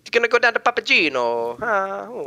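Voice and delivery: hammed-up Italian accent. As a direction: put on a joke Italian accent. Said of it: "I can do an Italian accent".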